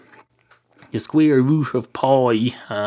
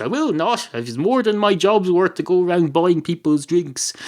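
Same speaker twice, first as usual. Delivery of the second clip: higher-pitched, mildly indignant barman; indignant refusal; 6 semitones higher than usual. Acted. Barman turns down a customer's request to buy drinks, indignant.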